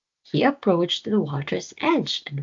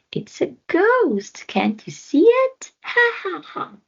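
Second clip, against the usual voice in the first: mocking laugh; 5 dB louder than usual. A narrator's reading.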